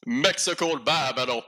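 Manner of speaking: "Mexico Bárbaro" said with a bad Italian-style accent; Italian-sounding Spanish. Shown as a demonstration. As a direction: announce the title like a hammy Italian. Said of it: "it is probably gonna sound very Italian".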